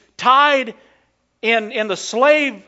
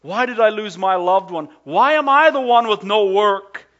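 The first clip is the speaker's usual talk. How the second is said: raised, pleading voice of complaint; anguished questioning; 4 dB louder than usual. Acted. Preacher voicing a hurting believer's questions, anguished. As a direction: cry it out as a pained question.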